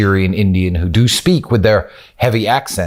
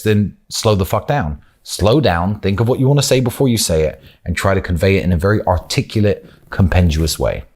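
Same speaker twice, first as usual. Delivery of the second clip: ordinary talk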